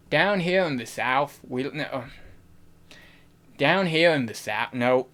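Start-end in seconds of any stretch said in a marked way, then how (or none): 0.1-1.4 tentative southern accent attempt. Shown as a demonstration. Streamer proving an accent to chat, tentative southern accent. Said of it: "I can do a good southern accent". 3.6-4.7 tentative southern accent attempt. Shown as a demonstration. Streamer proving an accent to chat, tentative southern accent. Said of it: "I can do a good southern accent".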